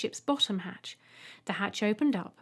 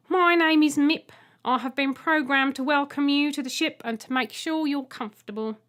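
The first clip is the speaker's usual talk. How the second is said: louder, stiff programmed welcome; robot egg Mip; 4 semitones higher, 6 dB louder than usual. Acted. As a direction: speak like a dutiful machine. Robot egg Mip introduces itself.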